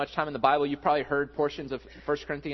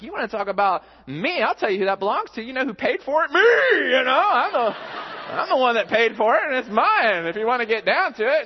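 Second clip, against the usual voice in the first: higher, louder half-joking rant; mock-indignant dad; 8 semitones higher, 7 dB louder than usual. Pastor mock-arguing with his toddler over who owns it. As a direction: ham up a petty dad claiming the toy. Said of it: "And I'm like".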